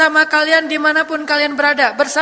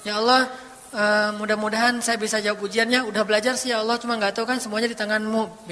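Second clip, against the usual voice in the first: soft, intimate request; lightly acted coaxing prayer; clingy prayer; 2 semitones lower, 4 dB quieter than usual. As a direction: confide in God gently. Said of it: "komunikasi sama Allah dengan manja".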